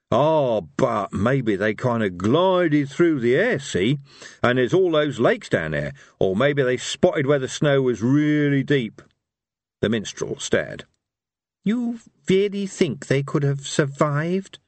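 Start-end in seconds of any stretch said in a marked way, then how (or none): 0.1-9.0 put-on hopeful old warlord. Harry hoping desperately. 11.6-14.6 doubtful minstrel. Acted.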